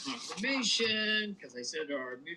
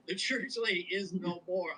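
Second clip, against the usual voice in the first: news report; 3 semitones higher than usual. Acted. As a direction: announce it like breaking news. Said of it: "I just did a news report".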